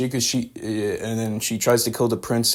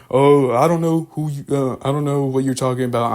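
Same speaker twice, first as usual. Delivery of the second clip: foreign guard voice; 4 semitones higher, 5 dB louder than usual. Retold or imitated.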